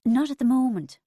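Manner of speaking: light, high and breezy; airy. A narrator's reading. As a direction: toss it off carelessly. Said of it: "I said airily".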